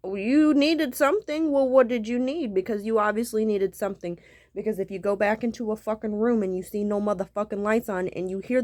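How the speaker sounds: angry scolding. Retold or imitated. Retold arguing with partner.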